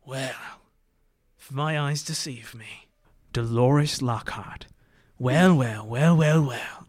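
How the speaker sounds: smug, drawn-out gloating officer. Acted. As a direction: savor each well, smug and slow. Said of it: "and he's like".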